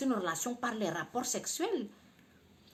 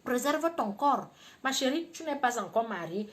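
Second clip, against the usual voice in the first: ordinary delivery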